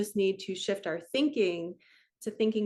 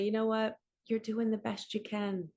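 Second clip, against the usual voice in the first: gentle reassurance. Shown as a demonstration. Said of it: "you just become really, really gentle".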